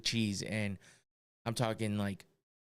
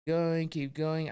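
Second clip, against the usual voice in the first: drawn-out, higher mock commentary; slow sing-along of an endless pour; mock topping-piler; 4 semitones higher, much slower than usual. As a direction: stretch it out, higher, as if still piling on. Acts out pizza maker adding cheese.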